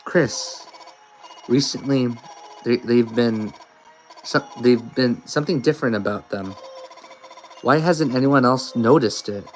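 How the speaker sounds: put-on uneasy, halting girl reading her fears; nervous Noelle. A lightly voiced scared girl, unsure and halting. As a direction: Noelle frets over Chris's strange voice.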